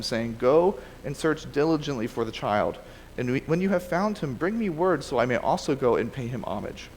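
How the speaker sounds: measured read-aloud of a Bible story; reading from the page; scripture reading. Acted. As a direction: read the passage aloud to a class, phrase by phrase. Reads the next section aloud.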